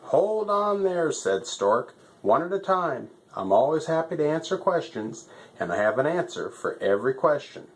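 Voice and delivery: fussy stork. Acted.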